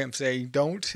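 words stretched by a yawn. Real, not acted. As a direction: talk through a yawn. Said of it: "and I'm yawning".

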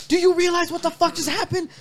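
very high, loud retold outburst; frantic disbelief. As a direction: yell it back at your brother in panic. Retold panicked reply to brother.

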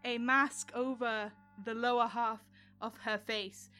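measured, deliberate storytelling with suspenseful pauses; game master scene-setting. Acted. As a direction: narrate a vision unfolding, lingering on key words.

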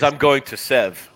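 SEV as one short syllable for seven; "Sev" drawn out slowly, no "en"; clipped local nickname. Shown as a demonstration. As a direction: say "Sev", dropping the second syllable. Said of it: "Actually, what you say is".

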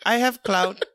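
lightly put-on Indian accent. Character insisting on his clout, Indian accent. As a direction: state it in short Indian-accented phrases. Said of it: "like you were Indian".

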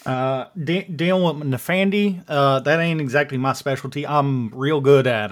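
folksy Texan owning up to his limits; Dan, Texas accent. Acted. Dan admits it ain't his specialty, Texas accent. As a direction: put on a casual Texas twang. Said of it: "I'm doing my best yeehaw here".

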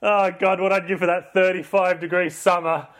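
wistful sigh. Retold or imitated.

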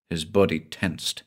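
usual speaking voice

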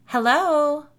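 high, loud singsong call; lilting call down the cabin steps; singsong hello. A narrator's reading. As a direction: sing out a drawn greeting to someone nearby. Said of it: "Gretchen sang".

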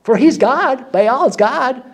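imitated prophet's mockery; mocking taunt. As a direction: goad them as Elijah, stretching the opening cry. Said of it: "Elijah mocks them and says".

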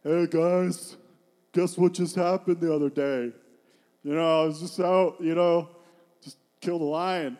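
loud, breezy mock brag; casual bragging. Preacher mimicking a David who boasts to the guys, casual bragging. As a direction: play a show-off casually announcing big news. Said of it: "David's not going around going".

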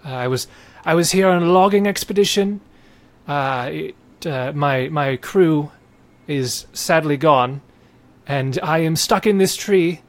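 a hint of a weary merchant stuck in a tree; lightly voiced merchant. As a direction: play the stranded merchant pleading to get down.

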